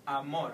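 "amor" with the weight on MOR; stress on last syllable. Shown as a demonstration. Teacher demonstrating the consonant-ending rule, final-syllable stress. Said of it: "stress the ending of the word".

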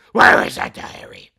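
shouted, hunting question; loud searching shout. Acted. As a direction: demand it loudly. Acts searching for diary.

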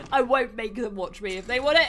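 ordinary talk

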